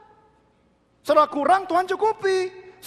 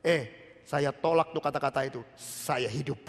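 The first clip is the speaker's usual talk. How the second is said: calm refusal; 11 semitones lower, 6 dB quieter than usual. Retold or imitated. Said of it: "Dia bilang begini".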